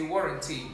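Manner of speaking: "warranty" as WAW-run-tee; correct pronunciation. Shown as a demonstration. Diction teacher repeating warranty for the class, careful pronunciation. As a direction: aw sound opening "warranty", light ending. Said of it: "Like awesome".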